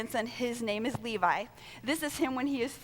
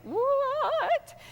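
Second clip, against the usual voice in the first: startled what; 4 dB louder than usual. Retold or imitated. Parents spooked, reacting.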